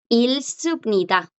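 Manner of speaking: "ilsupnida" slowly, G left out; slow teacher's model of "ilsupnida"; silent G. Shown as a demonstration. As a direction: go from L straight to S in "ilsupnida". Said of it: "Tampoco suena".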